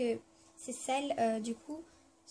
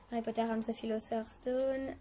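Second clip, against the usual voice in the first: French-accented English. Real, not acted. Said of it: "Excusez vraiment moi pour mon accent".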